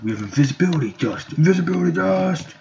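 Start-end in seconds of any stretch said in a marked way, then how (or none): 1.3-2.5 high-pitched showy cry; power-move call. Pretend. Player invoking invisibility, high power call. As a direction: sing out the power well above your usual pitch. Calls out the power just named.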